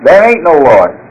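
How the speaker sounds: a lightly voiced gruff retort; atheist neighbor shouting. Atheist neighbor answering the lady, a mild mock shout. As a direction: toss it back over the fence. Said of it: "he would shout".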